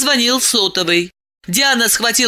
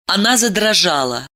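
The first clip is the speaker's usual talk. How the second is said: ordinary delivery, nothing marked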